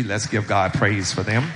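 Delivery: loud call to praise God; rallying call. Real, not acted. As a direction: lift the room, call it out loud. Pastor rallying the congregation.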